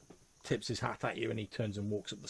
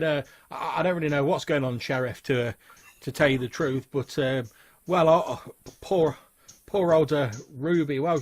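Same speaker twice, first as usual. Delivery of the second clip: higher, louder, halting barman voice; flustered barman; 4 semitones higher, 8 dB louder than usual. Acted. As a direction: stammer out an account to the sheriff.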